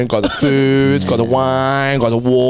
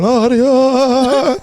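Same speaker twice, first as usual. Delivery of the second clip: imitating wife; 11 semitones higher, 4 dB louder than usual. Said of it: "She'd go".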